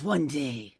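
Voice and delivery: slow, whispered doom prophecy; ominous whisper. Retold or imitated. Host voices Gunko announcing the end of the world, in an ominous whisper. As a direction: breathe it like a dark omen. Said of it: "I don't even know if my microphone is picking that up".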